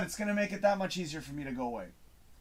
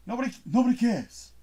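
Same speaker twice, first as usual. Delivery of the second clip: lightly voiced Chazz Palminteri line, a touch of a Bronx tough guy; a casual nod to the Bronx Tale line, barely changed from his own voice; 3 semitones higher than usual. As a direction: quote the movie line with a hint of a Bronx mobster. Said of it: "Like Chazz Palminteri says".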